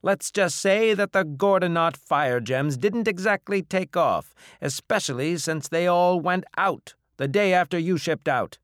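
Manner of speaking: high, loud, scornful bartender; gruff bar owner, doubtful. Acted. Bar owner reminding captain of failed gems, loudly scornful. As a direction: complain loudly about the last bad deal.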